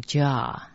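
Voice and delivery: Ja with an open "ah"; character read as Ja. Shown as a demonstration. Teacher showing how 蛇 is read, pronunciation demo. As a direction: demonstrate Ja as one drawn-out syllable. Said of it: "蛇这个字念成".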